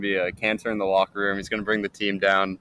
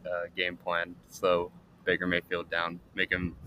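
call dropping out; 3 semitones lower, 8 dB quieter, slower than usual. Real, not acted. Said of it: "You cut out there for a second".

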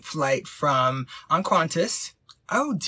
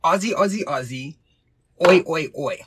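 measured chant of the code word; code word demo; 5 dB louder than usual. Shown as a demonstration. Host teaches assistant the code word, chanted demo. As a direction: demonstrate a call-and-response cheer. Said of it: "the code word will be".

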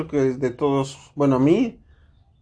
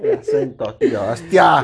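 put-on Spain Spanish accent; 2 semitones higher than usual. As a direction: shout it like a guy from Madrid. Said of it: "Hay que cambiarle solo la voz".

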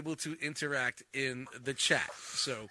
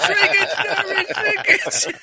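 sitcom quote; 14 semitones higher, 7 dB louder than usual. Retold or imitated. Quoting a sitcom line.

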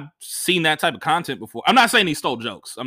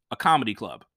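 flat, dry deadpan answer; 6 semitones lower than usual. Retold or imitated. Comic answering the promoter flatly, deadpan. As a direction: say it flat and unbothered. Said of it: "I just flatly said".

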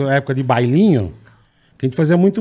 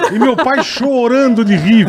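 higher, slower, laughing through it; 8 semitones higher, 3 dB louder, slower than usual. Real, not acted. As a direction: tell it while cracking up. Laughing while telling the story. (rindo ao contar)

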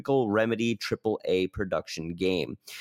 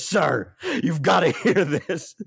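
excited mock intern bursting in, louder; hammed-up urgent intern, laughing through it; a frantic young intern barging in; breathless intern; 5 semitones higher, 5 dB louder than usual. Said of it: "sweaty intern kicks the door up and goes".

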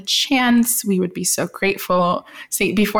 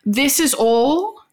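higher-pitched, badly faked British accent; shite British accent; 3 semitones higher than usual. Co-host offering to schedule an episode, bad British accent. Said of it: "British accent".

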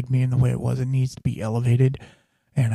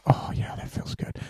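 softer, whispered sigh of relief; relieved whisper; 8 dB quieter than usual. Shown as a demonstration. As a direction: breathe it out like a deep satisfying breath. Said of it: "when you take a full deep breath and you're like".

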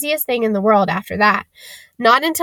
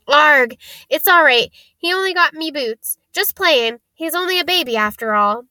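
bitten Hagrid reassuring; 6 semitones higher than usual. A narrator's reading. Hagrid bitten, excusing the baby dragon.

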